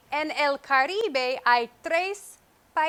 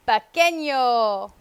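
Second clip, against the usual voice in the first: pequeño said slowly and firmly, falling; slow emphatic pequeño to show small; stressed pequeño; 2 semitones lower, 5 dB louder, slower than usual. Shown as a demonstration. Teacher contrasting small with big, slow emphatic. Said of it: "No es grande".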